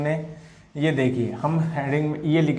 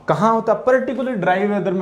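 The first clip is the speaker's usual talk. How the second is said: lively question; 5 semitones higher, much faster than usual. Acted. Teacher quizzing class loudly.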